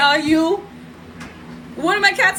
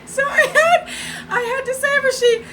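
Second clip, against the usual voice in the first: much higher, strained, like a heroine rushing in; mock heroic; 10 semitones higher than usual. Real, not acted. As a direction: raise the voice way up as you tell the rescue. Heroic rescue told with raised voice.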